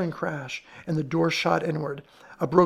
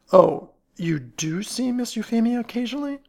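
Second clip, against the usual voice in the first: grim; 6 semitones higher, 5 dB louder than usual. A narrator's reading. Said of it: "asked Ellery grimly".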